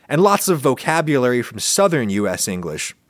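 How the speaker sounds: ordinary delivery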